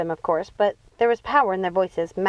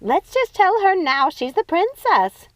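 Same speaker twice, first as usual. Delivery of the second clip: slow, much higher squeal; eager, pleading squeal; 11 semitones higher, 4 dB louder, slower than usual. Acted. Ruby squealing to her sisters, slow and high. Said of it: "squealed Ruby".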